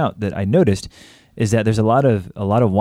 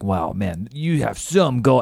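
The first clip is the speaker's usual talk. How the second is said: put-on drunk slurring; slower than usual. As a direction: slur it like a drunk king. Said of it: "imagine slurring his speech".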